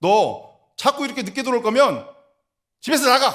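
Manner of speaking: high, loud, stern, angry yell.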